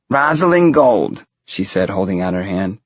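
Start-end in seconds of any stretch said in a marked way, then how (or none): 0.1-1.2 high, slow, drawn-out self-introduction; fortune-teller's own voice. A narrator's reading. Widow from Brooklyn introduces herself, high character voice. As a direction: announce your name grandly, pitched high.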